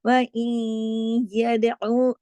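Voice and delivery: यदऊ read slowly, the ऊ from the throat; throaty ain. Shown as a demonstration. Teacher recites to show the throat letter. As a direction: draw ई and ऊ out slowly. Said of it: "आइन को गले से पढ़ा जाएगा".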